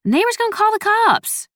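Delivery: high, yelping complaint; loud protest. A narrator's reading. Son protesting his mother's screaming, loud high yelp.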